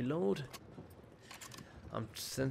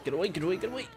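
terrified gibbering; 9 semitones higher than usual. Real, not acted. Panicked while attacked.

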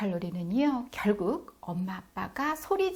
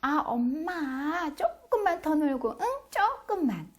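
put-on high, drawn-out whine of a kid stalling; mock childish wheedling; imitated pleading child; 8 semitones higher, slower than usual. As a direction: beg mom for more playtime. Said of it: "더 놀겠다고 막 버티는 그런 흉내".

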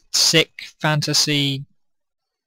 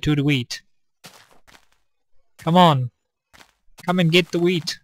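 coaxing; 3 semitones higher than usual. Pretend. Coaxing sheep with wheat.

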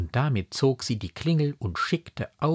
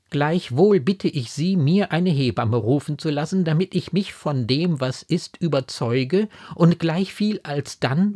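higher, louder, formal entreaty; raised, insistent voice of a troubled daughter; earnest pleading daughter; 6 semitones higher, 5 dB louder than usual. A narrator's reading. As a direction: plead earnestly with a revered mother.

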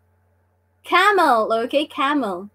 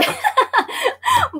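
high giggle. Real, not acted. Laughing at the comment section.

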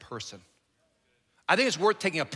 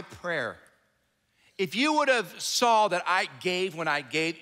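raised, reproachful voice, slowing at the end; hurt complaint; 2 semitones higher than usual. Acted. Martha blames Jesus for her brother's death, raised and hurt. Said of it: "Martha said to Jesus".

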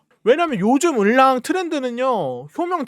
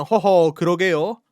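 carefree excuse voice; 4 semitones lower than usual. Retold or imitated. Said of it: "남 일인 것 마냥".

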